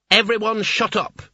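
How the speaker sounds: sharp high shout for silence; a wizard shouting down the room; screamed. Acted. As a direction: yell to cut everyone off. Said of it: "he screamed".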